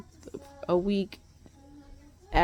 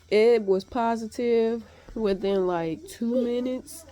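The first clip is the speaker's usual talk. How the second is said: excited; 2 semitones higher, 5 dB louder than usual. Real, not acted. Disbelief at fast positive test.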